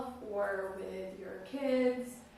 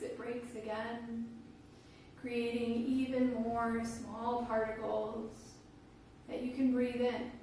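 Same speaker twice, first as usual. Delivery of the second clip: calm, unhurried guiding voice with long pauses; guided meditation. Real, not acted. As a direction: guide listeners gently into their breath, phrase by phrase.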